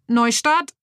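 high, rising glitchy robot word; robotic restart. Acted. Glitching superhero figure restarts itself again, rising robotic tone. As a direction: repeat the reboot like a stuck toy.

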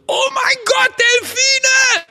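high, loud mock shriek of delight; excited shriek. Someone on a boat spotting dolphins, shrieking high with joy. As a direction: squeal like you've never seen a dolphin.

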